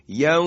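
یوم with the vowel held long at the stop; stretched vowel at pause. Shown as a demonstration. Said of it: "اینجا مد به وجود میاد".

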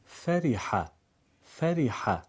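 "فریحه" with i after f, feriha; kasra near i. Shown as a demonstration. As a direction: lean the kasra of "فریحه" toward i.

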